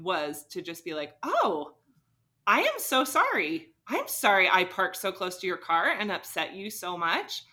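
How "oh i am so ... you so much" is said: earnest, higher-pitched re-enacted apology; acted apology. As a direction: play an eager, concerned apology to a stranger. Re-enacting her instant apology to angry man.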